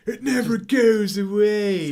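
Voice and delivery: hammed-up imitation of a deranged man droning on; creepy man. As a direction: drag each word out, loud and high, like a man unhinged. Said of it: "He's like".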